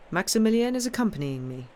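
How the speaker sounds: quick, light reassurance; reassuringly pleasant. Acted. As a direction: soothe her, easy and kind. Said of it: "in his reassuringly pleasant manner".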